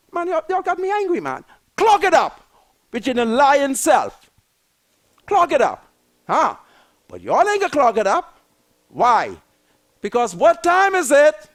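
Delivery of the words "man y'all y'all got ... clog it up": angry scold. Real, not acted. Scolding the FNM ministers, a loud angry clog it up. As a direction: punch clog it up louder.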